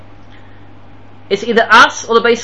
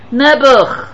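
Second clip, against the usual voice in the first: pitying lament; 5 semitones higher, 3 dB louder than usual. Real, not acted. Lament at that attitude.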